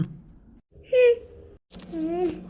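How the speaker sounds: drawn-out hungry whimper. Acted. Hungry wife lying awake, whimpering.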